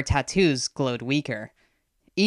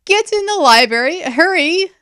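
high, loud shouted order; urgent shout; 14 semitones higher, 7 dB louder than usual. A narrator's reading. Aster sending the kids to the library, urgent shout. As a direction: yell them to safety.

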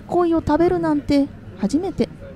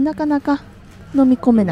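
talking through a hot mouthful; words round scalding food; mouth full of hot food. Real, not acted. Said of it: "熱すぎてしばらく喋れませんでした".

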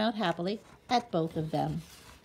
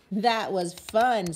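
cheerful; 3 semitones higher, 7 dB louder, much slower than usual. A narrator's reading. Mother cheerful after song.

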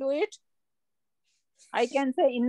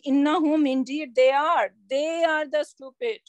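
firm, stressed "Innahum, indeed they are"; emphatic declaration; 2 semitones higher than usual. Retold or imitated. Teacher quoting the verse to students with firm emphasis. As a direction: declare it with full conviction. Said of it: "Allah Subhanahu wa Ta'ala is saying".

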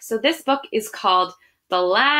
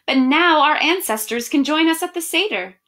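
a touch higher, glad and bright; happy voice; 5 semitones higher, 3 dB louder than usual. Acted. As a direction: share the photos with joy. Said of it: "in a happy voice".

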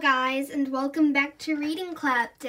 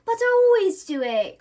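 put-on higher, louder protesting boy; crying out; 9 semitones higher, 9 dB louder than usual. Bertie protests to Mum, crying out. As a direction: wail it in dismay. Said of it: "cried Bertie".

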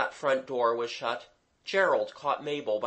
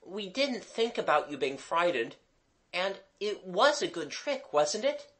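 sweet, coaxing voice rising higher; honeyed; 6 semitones higher than usual. A narrator's reading. Gerald passing it off as a trick, honeyed. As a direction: coax sweetly, pitch lifting as you go. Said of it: "Gerald's honeyed tones".

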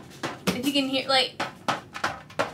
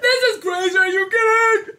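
laughing disbelief; 8 semitones higher, 5 dB louder than usual. Real, not acted. Reacting to the altered voices.

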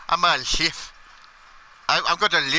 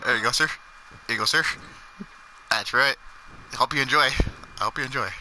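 lower, polite barkeep serving a customer; a lightly lowered bartender voice; 4 semitones lower, 3 dB quieter, faster than usual. Acted. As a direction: play the friendly bartender handing over drinks.

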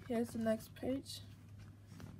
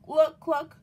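loud, higher clucking; chicken cluck; 6 semitones higher, 12 dB louder than usual. Acted. Chicken greeting Duck, loud clucks. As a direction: cluck it like a hen. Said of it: "said Chicken".

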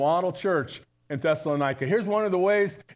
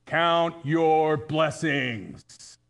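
grandma's saying; much slower than usual. Retold or imitated. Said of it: "Graham would say".

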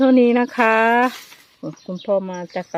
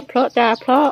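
imitating grandma; 3 semitones higher than usual. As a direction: stretch each word like a pleased old lady. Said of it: "แม่ใหญ่บอกว่า".

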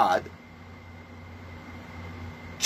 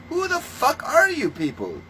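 pitched way up, furious question; high angry demand; 11 semitones higher than usual. Real, not acted. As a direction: fling the question at them, voice soaring. Ranting question to clergy.

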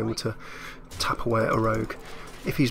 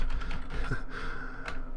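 blowing nose; 5 dB quieter than usual. Real, not acted. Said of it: "for the nose blowing sound".

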